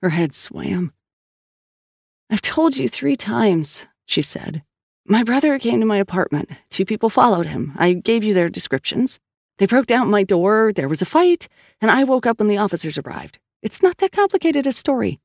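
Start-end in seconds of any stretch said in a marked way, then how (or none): 2.3-3.9 slow, higher, exasperated insistence; raised pitch, drawn-out impatience. Acted. Exasperated witness repeats her account. 5.1-15.2 Sal as exasperated witness, higher pitch; higher-voiced, impatient woman defending her story; insistent witness. Voices Sal giving her account.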